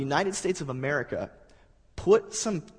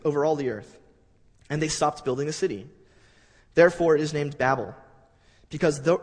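measured, formal Bible reading to the congregation; steady pulpit reading of scripture. Acted. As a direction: read the passage with solemn weight. Reads Babel scripture aloud.

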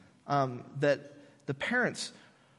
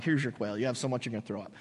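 exasperated God; 6 semitones lower, 6 dB quieter, faster than usual. Retold or imitated. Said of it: "then God's like".

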